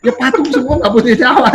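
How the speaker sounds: laughing through the punchline, loud and high. Real, not acted. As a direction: burst out laughing mid-sentence. Laughing at own joke. (tertawa keras sambil bicara)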